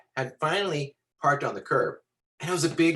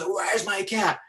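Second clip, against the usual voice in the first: higher, strained angry demand; acted angry demand; 6 semitones higher, slower than usual. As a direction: play the big guy at the end of his patience. Angry man shouts, story's climax.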